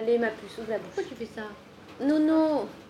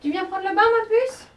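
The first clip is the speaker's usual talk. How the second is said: yelling across the room; 5 semitones higher, 6 dB louder than usual. Real, not acted. Mother calls child to bath.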